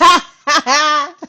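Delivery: high, loud burst of laughter; big laugh. Real, not acted. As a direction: crack up. Laughing at her own joke.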